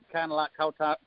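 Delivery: mock Southern US accent. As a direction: briefly imitate his Southern accent. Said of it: "I apologize, I'll never do that again".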